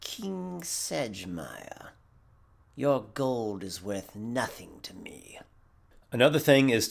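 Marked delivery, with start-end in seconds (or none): 0.0-5.4 eerie, very slow whispery voice; weird character. Shown as a demonstration. Odd character spurning the king's gold, weird whisper. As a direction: draw it out softly, sinking into a whisper. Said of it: "get a little weird".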